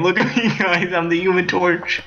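Human Torch boast. Pretend. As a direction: brag like a goofy superhero. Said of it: "one of your friends light themselves on fire saying".

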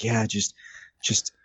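imitating a soothing meditation guide; calm meditation guide. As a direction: gently talk a friend into it. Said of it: "basic meditation and stuff".

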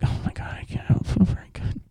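breathy, pitiful whisper; mock sick whisper; whiny whisper. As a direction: whimper it like you're seasick. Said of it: "hanging on to me".

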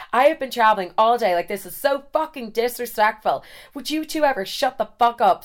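put-on American accent rant; mock-outraged American tourist. American traveller scolding two roommates, put-on outraged American accent. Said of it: "American, American".

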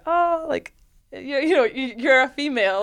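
high-pitched mock astonishment; shocked young girls. Coach imitating schoolgirls meeting a female player, shocked and high. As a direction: imitate girls amazed at what they see. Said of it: "they're just shocked".

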